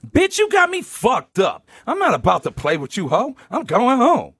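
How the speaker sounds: high-pitched indignant tirade; re-enacted furious outburst; going off. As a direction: go off on them, high and fired up. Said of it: "I start going off".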